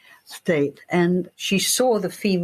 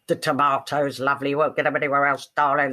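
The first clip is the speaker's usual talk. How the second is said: low, fast gravelly stall-holder patter; gravelly market trader; 4 semitones lower, faster than usual. Retold or imitated. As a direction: hawk tomatoes like a tough market woman. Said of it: "They had that gravel voice".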